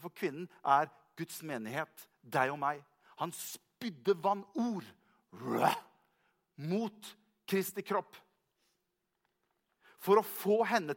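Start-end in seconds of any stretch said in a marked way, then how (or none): 5.3-5.7 low guttural spewing sound; imitated spewing noise. Preacher acts out the serpent spewing, imitated spewing noise.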